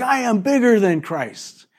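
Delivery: mock demonic bravado, lightly voiced; boasting Satan. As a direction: play Satan bragging to Jesus. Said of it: "He's like".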